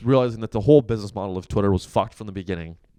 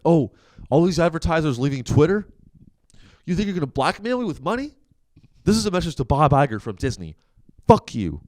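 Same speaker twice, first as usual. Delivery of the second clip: higher, mocking impression of a ranting billionaire; mock Elon Musk; 6 semitones higher than usual. Mocking the boss telling advertisers off. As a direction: sneer it out as a petulant tech boss. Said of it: "That's what he says".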